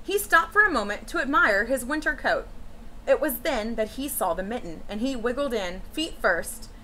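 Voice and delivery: put-on gentle read-aloud for children; storybook reading. A narrator's reading. Teacher reading a picture book to children, storytelling voice. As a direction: read it like story time to a class.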